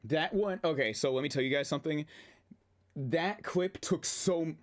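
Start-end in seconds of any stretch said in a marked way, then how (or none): 3.0-4.5 talking through hiccups; hiccuping. Real, not acted. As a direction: hiccups breaking the words. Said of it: "oh, I'm hiccuping again".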